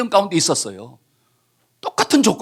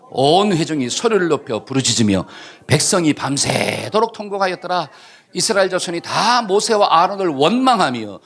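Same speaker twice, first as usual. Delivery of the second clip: congregational reading. Real, not acted. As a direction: read together, steady and measured. Congregation reads scripture aloud together. (회중이 함께 천천히 읽는 성경 낭독)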